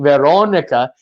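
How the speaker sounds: "Veronica" with a round "oh" in the second syllable; practised "Veronica", long "oh"; Portuguese pronunciation. Retold or imitated. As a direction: say "Veronica" carefully with rounded lips on "oh". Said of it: "seeing her and saying".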